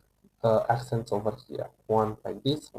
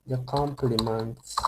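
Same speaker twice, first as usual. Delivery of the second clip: slow, deliberate words for students to copy; teacher dictating slowly; slow dictation; slower than usual. Shown as a demonstration. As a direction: spell out the sentence slowly. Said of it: "building the example sentence".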